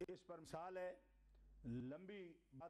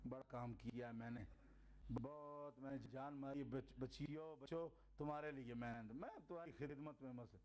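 much lower, softened self-effacing voice; humble father; 8 semitones lower than usual. Retold or imitated. Father telling his children he's just their servant, humbly. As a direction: play the modest dad.

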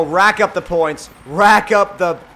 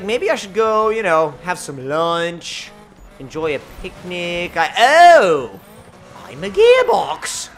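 dawdling gearbox; 4 dB louder, slower than usual. Acted. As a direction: play a gearbox with no hurry to shift. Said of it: "the automatic gearbox in this car is like".

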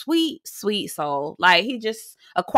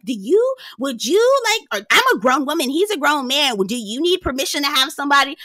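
mock defensive Larsa; 5 semitones higher than usual. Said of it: "She started getting defensive".

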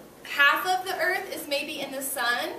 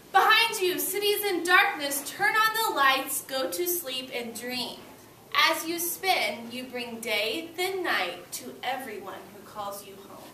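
put-on reading to children; 3 dB louder, slower than usual. A narrator's reading. Teacher reading the earth story to her class, bright and lilting. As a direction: read it out to the class with lift. Reading picture book aloud.

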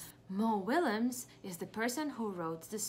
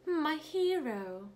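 admiring piggy; 6 semitones higher, slower than usual. Acted. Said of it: "That's what Piggy is thinking".

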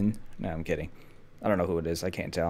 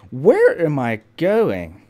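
British accent; 4 semitones higher, 5 dB louder, slower than usual. Real, not acted. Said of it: "Why do I have a British accent".

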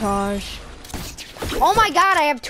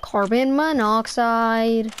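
slow, drawn-out clickbait narrator; YouTuber voice; slower than usual. Pretend. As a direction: stretch it like a bad YouTuber intro. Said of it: "love using that YouTuber voice".

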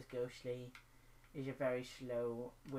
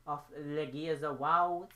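monster; 8 dB louder, slower than usual. Pretend. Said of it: "I'm a locust".

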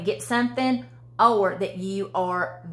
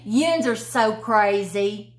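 teasing Southern usage; 2 semitones higher, slower than usual. Shown as a demonstration. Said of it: "we use the word yuns".

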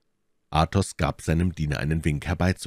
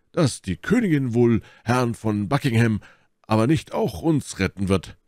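higher, animated character voice; Porthos objecting; 7 semitones higher, 4 dB louder than usual. A narrator's reading. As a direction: voice a forceful objector, pitched up.

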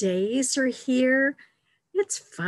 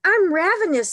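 loud, high cry of a hungry cub; dramatic hunger; 10 semitones higher, 8 dB louder, faster than usual. Acted. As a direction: exaggerate it at high pitch. Second cub tops the first.

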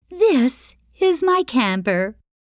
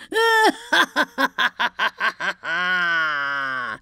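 evil troll laugh; 3 semitones lower than usual. Acted. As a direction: cackle like a hungry troll.

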